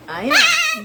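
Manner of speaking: high, loud squeal back at the bird; match the parrot's screech playfully; excited pet talk. Real, not acted. Owner echoing her loud parrot, high squealing pet talk.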